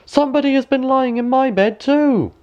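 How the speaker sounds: high, calling dwarf voices. A narrator's reading. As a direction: pitch right up and call it out. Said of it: "each called out".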